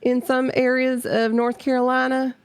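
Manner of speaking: high, lightly put-on Southern accent; North Carolina accent. Shown as a demonstration. Streamer showing how home folk talk, North Carolina accent. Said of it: "they talk like this".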